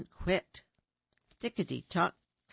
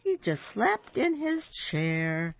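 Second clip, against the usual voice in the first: put-on lively read-aloud for young children; storybook narration. A narrator's reading. Reading a picture book to little kids, storybook voice. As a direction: tell it like bedtime story time.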